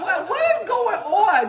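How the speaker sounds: mock bewilderment. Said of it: "I'm just like".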